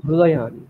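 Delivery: "হৃদয়ানি" said as hrudayani; "ru" pronunciation. Shown as a demonstration. Teacher explaining the Rigveda reading, "হৃদয়ানি" with hru. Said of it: "Rigveda বলে আমরা রু বলবো".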